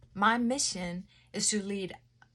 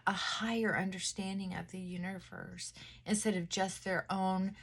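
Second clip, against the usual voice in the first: softened voice; 3 dB quieter than usual. Shown as a demonstration. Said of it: "soften my voice and soften my tone".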